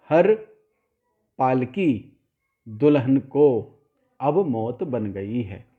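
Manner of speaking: हर, long pause, पाल की, pause, दुल्हन को, slowly; gaps between words. Shown as a demonstration. Teacher showing students how to avoid ambiguity, gaps between words. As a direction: set हर apart from पाल की with a clear stop. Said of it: "एक-एक शब्द को थोड़ा-थोड़ा gap देकर बोलें".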